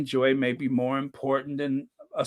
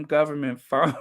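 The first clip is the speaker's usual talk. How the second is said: laughing. Real, not acted. Giggling at own joke.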